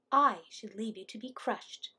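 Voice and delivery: a hint of a small bird voice; lightly voiced scolding little bird; tiny Hummingbird. A narrator's reading.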